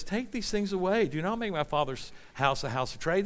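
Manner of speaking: mild, level read with little force; mock calm. Preacher parodies Jesus saying it calmly, mock calm. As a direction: say it too calmly, as if unbothered. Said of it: "Jesus just calmly says".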